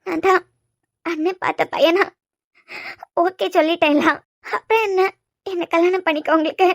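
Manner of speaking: halting, tearful protest; crying. Acted. Presses him about the agreed marriage, crying. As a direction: argue through tears, with breaks. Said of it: "முத அழுறத நிப்பாட்டு".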